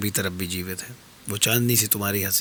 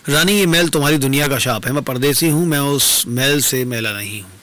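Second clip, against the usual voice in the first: louder, emphatic declaration; forceful rejection; 2 semitones higher, 5 dB louder than usual. Acted. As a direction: declare it firmly to the queen. Stranger rejects taint of her world. (ज़ोरदार, दृढ़ इनकार)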